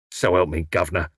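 low-pitched hoarse appeal; hoarse ruffian. A narrator's reading. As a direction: growl it lightly like a rough henchman. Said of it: "said the taller of the two hoarsely".

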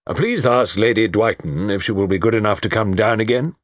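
lightly voiced formal colonel; courteous officer's request. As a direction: politely give an order, measured. Colonel speaks to servant.

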